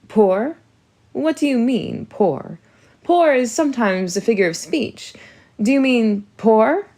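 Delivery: can't believe what she hears; alarmed disbelief. Acted. Wife to husband on learning he's poor, shocked. Mum Olga alarmed at poverty.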